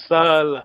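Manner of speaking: "Sala" with the first "a" held long; long vowel. Shown as a demonstration. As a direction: stretch the first vowel, "Saala". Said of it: "make sure you got the long vowel".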